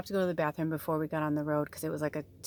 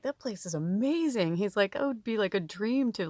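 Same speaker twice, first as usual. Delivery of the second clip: enthusiastic; 4 semitones higher, 3 dB louder than usual. Retold or imitated. Retelling a companion's reaction to the farm, enthusiastic. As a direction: imitate an excited, louder reaction.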